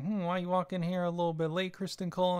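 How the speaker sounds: lightly voiced Otto questioning a latecomer; suspicious Otto. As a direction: needle him like a wary father-in-law. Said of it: "Otto's kinda looking like".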